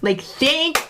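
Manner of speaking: bursting with pride and gratitude; proud future self. Pretend. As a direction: cheer on her younger self. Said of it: "How can fifty-year-old Steph look back and go".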